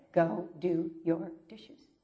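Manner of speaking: God's command, slowed right down; slow, firm repeat. Retold or imitated. God repeating the chore to the weeping woman, slow. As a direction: lay each word out patiently. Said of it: "He said again".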